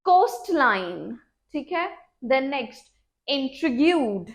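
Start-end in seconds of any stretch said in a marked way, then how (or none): 3.3-4.3 intrigued slow, with the final d sounded; clear ed ending. Shown as a demonstration. Teacher models the ed ending for students, slowly. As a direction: land the d at the end of intrigued. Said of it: "ईडी है तो सुनना चाहिए".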